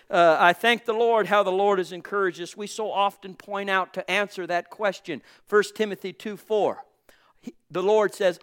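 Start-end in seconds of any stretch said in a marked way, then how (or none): 5.5-8.4 whispered aside. Real, not acted. Whispered aside before quote.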